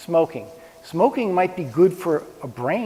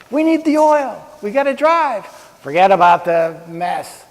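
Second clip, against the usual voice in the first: mock conservative; 5 dB louder than usual. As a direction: lightly voice a brash oil-first conservative. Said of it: "What do the conservatives get wrong?".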